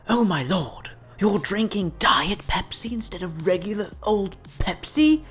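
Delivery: soft, sniffy disdain; quietly appalled soda snob; disdainful snob. Pretend. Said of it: "Imagine for a moment if we applied this hardcore gamer mindset".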